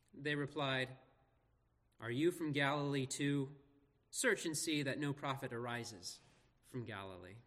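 measured public Bible reading; scripture reading. Acted. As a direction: read the passage out clearly, phrase by phrase. Reads scripture aloud to congregation.

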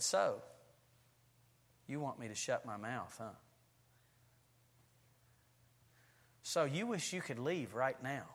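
preacher, hands on hips, quietly confronting a squirming listener; stern preacher. Acted. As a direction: call out one listener softly, staring right at them. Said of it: "I put my hands on my hips".

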